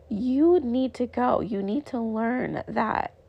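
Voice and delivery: slow, emphatic parental insistence; lightly voiced firm mom, drawing the words out. Acts out firm parent to child.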